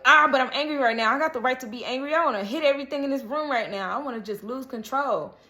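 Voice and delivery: mildly hammed-up angry outburst; acting out anger. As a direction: play anger itself venting in a hurry. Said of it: "anger is like".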